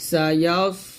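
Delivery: slow tajweed, long hummed nasal on রং; Quran recitation with qalqalah. Shown as a demonstration. Teacher models the verse for learners, slow recitation. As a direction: hold the vowels, bounce the final b. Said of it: "বাটা কলকল হবে".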